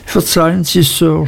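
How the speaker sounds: high-pitched, meek schoolboy plea; nervous, lightly voiced begging; timid stammer. A narrator's reading. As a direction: falter out an apology to a feared master. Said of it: "stotterte ich".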